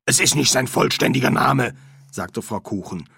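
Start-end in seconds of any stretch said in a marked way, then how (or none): 0.0-1.7 lightly voiced medium, louder and higher; firm, louder correction from the medium; brisk medium.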